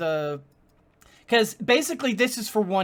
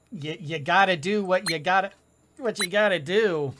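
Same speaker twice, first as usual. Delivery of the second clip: talking through hiccups; hiccuping between words; 3 semitones lower than usual. Real, not acted. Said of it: "I got the hiccups now".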